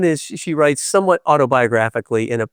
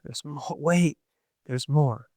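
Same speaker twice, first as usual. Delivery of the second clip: fading; 8 dB quieter, slower than usual. Real, not acted. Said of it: "trailing off".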